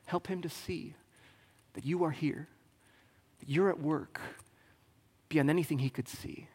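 soft, hushed prayer fading to a whisper; quiet prayer. Retold or imitated. Elisha praying for his servant, soft and hushed. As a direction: pray it softly, almost whispered. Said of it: "He says".

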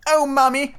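put-on high-pitched excited little boy; high, eager child's exclamation; child crying out. A narrator's reading. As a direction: cry out to mother like a child. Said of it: "cried the first twin".

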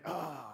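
soft exasperated mock groan; grumbling groan. Preacher playing grumbling Israelites, exasperated groan. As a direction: let out a weary, complaining "oh". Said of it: "They're grumbling".

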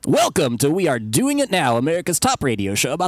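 radio host intro. Pretend. Mock radio show intro.

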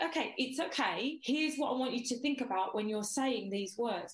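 calm, patient retold coaching; reassuring coach. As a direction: settle back down and reassure gently. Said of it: "I was just like".

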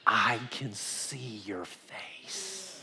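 slow, breath-only mock scream; retold scream, whispered. Preacher retells healed blind man seeing his wife, whispered scream. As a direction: imitate an awestruck scream under your breath. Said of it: "he started screaming in a Russian dialect".

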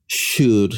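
"should" set apart by pauses; air-quoted SHOULD. Real, not acted. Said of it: "I'm making giant air quotes here".

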